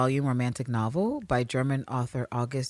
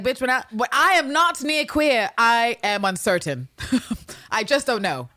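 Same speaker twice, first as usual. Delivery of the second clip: higher, louder hammed-up swoon; mock dramatic lover; 8 semitones higher, 4 dB louder than usual. Host voicing Mariana's anxious letter, hammed-up and higher. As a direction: overplay the anxious sweetheart. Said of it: "She's like".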